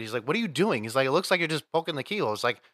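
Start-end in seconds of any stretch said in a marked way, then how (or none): 0.3-0.8 mock frustrated. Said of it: "he was getting frustrated". 1.1-2.3 mock frustrated. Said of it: "he was getting frustrated".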